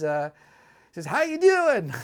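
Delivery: put-on strong Southern accent. Retelling a man yelling a greeting across a restaurant: big southern accent. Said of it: "In a big Southern accent".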